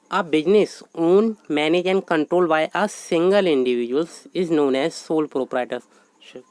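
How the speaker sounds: slow, measured dictation of a definition. Acted. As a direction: read it out word by word for notes. Teacher dictates definition in English.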